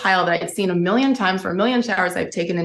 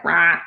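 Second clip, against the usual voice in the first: brief imitated wail; mock crying noise; 3 semitones lower than usual. Telling how she cried before the nurse, mock crying noise. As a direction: spell out a crying sound without really sobbing.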